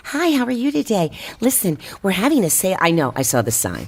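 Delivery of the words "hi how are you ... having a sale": pushy salesclerk. Retold or imitated. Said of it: "it's like".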